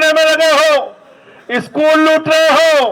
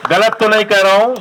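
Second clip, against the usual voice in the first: fast, lower, rising tag question; quick lower rising aside; 5 semitones lower, faster than usual. Real, not acted. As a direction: toss it off quickly to the crowd. Rhetorical check with the crowd.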